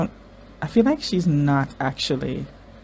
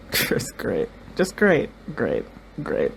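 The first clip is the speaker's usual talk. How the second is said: flat, sinking sarcastic just great; a weary sarcastic great; slower than usual. Real, not acted. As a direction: mutter it like nothing is great. Sarcastic after bad news.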